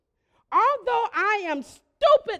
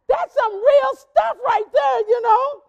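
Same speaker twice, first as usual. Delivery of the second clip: emphatic; 6 semitones higher, 8 dB louder than usual. Retold or imitated. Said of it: "I thought".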